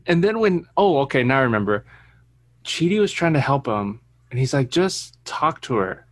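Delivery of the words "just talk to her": Michael's voice. Retold or imitated. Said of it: "uh, his voice".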